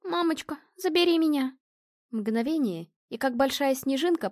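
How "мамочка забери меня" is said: высоко, с мольбой зовёт маму; девочка в ужасе зовёт маму; испуганный детский зов. A narrator's reading. Призрак снова зовёт маму. (детский крик о помощи)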